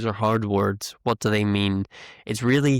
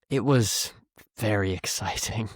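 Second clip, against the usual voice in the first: mean the opposite, as if it was very boring; sarcastic. Shown as a demonstration. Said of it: "shows in the second option".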